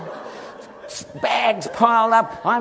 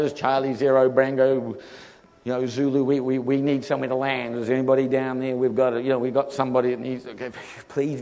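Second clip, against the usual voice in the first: radio call; 6 semitones lower, faster than usual. Retold or imitated. Pilot radioing for landing.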